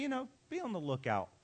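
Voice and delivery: light, quick, offhand mock advice; casual aside. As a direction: toss it off as a casual suggestion. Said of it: "Jesus is not casually walking along".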